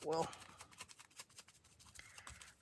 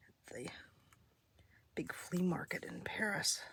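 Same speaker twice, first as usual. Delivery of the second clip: whispering. Real, not acted. Whispered aside.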